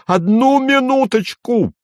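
put-on high shrieking old man's falsetto; old man yelling in falsetto; piercing falsetto. A narrator's reading. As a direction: cry out to stop the fight, high. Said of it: "завопил он пронзительным фальцетом".

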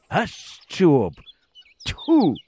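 slow grumble, then a high spat-out ugh; disgusted spit. Acted. Boy spitting mud after crashing his bike, disgusted.

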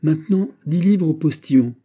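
high, loud, brisk-sounding order; military command tone. A narrator's reading. D'Artagnan ordering a tip for the postilion, commanding tone. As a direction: give it like an officer commanding a manoeuvre. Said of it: "du ton qu'il eût mis à commander une manœuvre".

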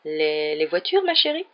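stammer, then squeak out an innocent question; guilty. A narrator's reading. Guilty husband caught out by his wife, faltering. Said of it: "d'un air coupable".

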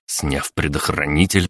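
plain reading voice

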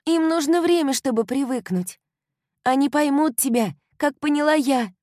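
high, loud reassuring friend; loving young woman consoling; comforting girlfriend. A narrator's reading. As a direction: reassure her friend warmly. Kylie comforting.

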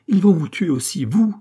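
acted, high-pitched outcry; crying out. A narrator's reading. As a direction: cry it out high, leaping on the last word. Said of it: "s'écria-t-elle".

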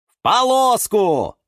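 high, loud, drawn-out cheer; chorus answer. A narrator's reading. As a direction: shout it out like a whole gang in chorus. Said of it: "сказала хором зелёная банда-команда". (громко и протяжно, как хором)

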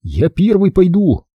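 steady and brave; brave boy. A narrator's reading.

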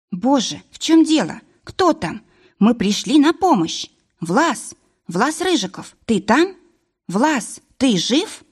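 high-pitched, anxious questions; alarmed calling. A narrator's reading. Varvara to Vlas hidden in the dark, alarmed calling. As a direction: call out urgently for a missing man. Alarmed calls after friend is struck.

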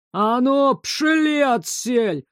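медленно, грубо, деревенским голосом; прогнать по-мужицки; грубый мужик. A narrator's reading. Грубо гонит бездомных. (мужик грубо гонит бездомных прочь)

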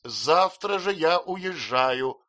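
slow, loud, drawn-out threat; offended spinster. A narrator's reading. Miss Murdstone threatening her brother to leave, wounded. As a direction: announce it with wounded pride.

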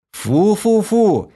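high, slow drawn-out yell of disgust. A narrator's reading. The hero fights off the maid, yelling. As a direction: wail it out in disgust. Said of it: "завопил я".

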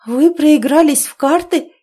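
high, loud reproachful cry; indignant shout; heated outcry. A narrator's reading. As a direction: berate her father in dismay. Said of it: "воскликнула девушка в сердцах".

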